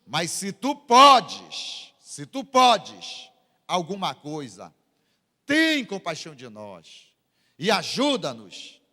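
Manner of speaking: slow, emphatic plea; slow imploring quote of a desperate father. Retold or imitated. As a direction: plead slowly, leaning hard on key words. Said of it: "esse pai desesperado".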